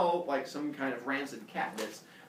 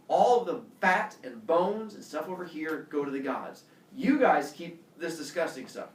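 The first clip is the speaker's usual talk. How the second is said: a touch louder, pompous god laying down the law; lordly Zeus decree; 3 semitones higher, 4 dB louder than usual. Acted. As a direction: decreto pomposo de Zeus, algo más fuerte.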